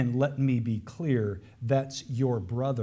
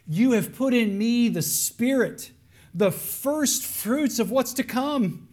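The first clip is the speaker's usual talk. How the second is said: high, loud preaching climax; impassioned preaching; 9 semitones higher, 5 dB louder, slower than usual. Acted. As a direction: preach it with full fervour. Preaching at full force.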